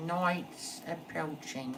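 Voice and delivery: high, slow bumbling guard voice; a clumsy castle guard, drawn out high; bungling gate guard. Acted. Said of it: "my octave goes up like a, like a bungling gate guard".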